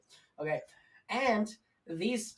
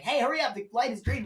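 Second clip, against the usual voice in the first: loud, higher call from a car behind; driver yelling; 6 semitones higher, 6 dB louder than usual. Retold or imitated. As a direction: shout at the stalled driver to move. Honking driver yells.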